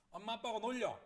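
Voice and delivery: high, loud retort; mom's call. Retold or imitated. Mom to child at home, loud acted call. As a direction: call it out like a fed-up mother. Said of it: "예, 이렇게 한답니다".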